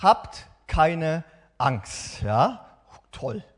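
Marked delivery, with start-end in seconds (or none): 0.0-2.2 very slow, drawn-out reassurance; calm call. Acted. Jesus calling across the storm, slow and reassuring. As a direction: stretch each word out to calm them. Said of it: "Und Jesus ruft".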